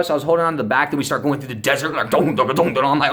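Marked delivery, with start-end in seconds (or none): 2.1-2.8 rhythmic thudding "dun" noises; quick run of spoken thuds; bumpy ride imitation. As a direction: mimic bouncing over desert bumps. Imitating bumps through the desert.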